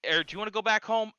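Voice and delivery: hint of a threatening demon; menacing demon voice. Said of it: "He's like".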